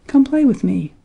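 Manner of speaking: high little mouse's call. A narrator's reading. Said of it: "called Danny Meadow Mouse".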